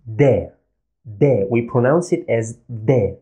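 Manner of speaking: De said as a plain English D; Arabic dal. Shown as a demonstration. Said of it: "easy as the English sound D".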